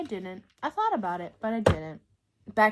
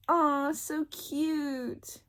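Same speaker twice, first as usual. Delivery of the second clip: mock swoon; 5 semitones higher, much slower than usual. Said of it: "they say something cute".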